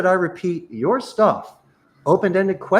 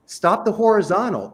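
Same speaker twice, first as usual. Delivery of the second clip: ordinary talk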